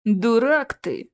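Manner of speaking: slow, offended retort. Acted. Nevil answers the troll's insult, offended. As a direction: drag it out, mildly hurt. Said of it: "обиделся Невил".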